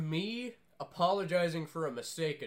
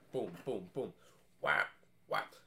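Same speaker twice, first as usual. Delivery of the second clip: imitated workout noises; 11 semitones lower, 4 dB quieter than usual. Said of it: "They were like".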